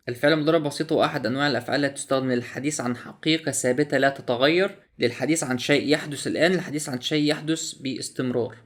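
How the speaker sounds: quick, formal textbook read-through in standard Arabic; formal reading aloud. Acted. Reviewer reading the app's grammar definition to viewers, in a fast formal read.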